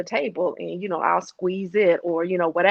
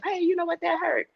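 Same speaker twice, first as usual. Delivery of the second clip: calm assertive self; 11 semitones higher than usual. Retold or imitated. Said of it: "instead of".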